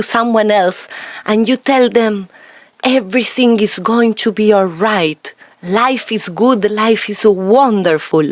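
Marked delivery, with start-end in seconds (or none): 2.8-8.2 "all right", "good" and "wonderful" settling down; measured assurance, a full stop on "good" and "wonderful"; downward inflection. Shown as a demonstration. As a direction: give hope with certainty, falling on "wonderful". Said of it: "With the downward inflection".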